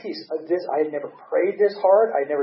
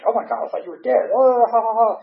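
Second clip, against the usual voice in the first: laughing Linda; 8 semitones higher, 7 dB louder than usual. Retold or imitated. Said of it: "And she's like".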